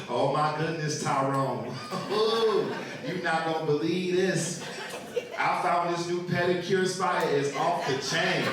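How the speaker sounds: lightly voiced tipsy excitement; tipsy wife. Tipsy wife telling husband about new pedicure spot, lightly imitated. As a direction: gush like a mildly tipsy wife, with a drawn-in "Ooh". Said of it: "very intoxicated".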